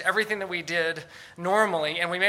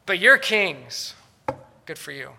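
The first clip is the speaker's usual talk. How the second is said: sarcastic; 6 dB louder, slower than usual. Acted. Condemned apostle to the would-be kings, sarcastic. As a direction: congratulate them, then toss it away. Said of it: "his voice dripping with sarcasm".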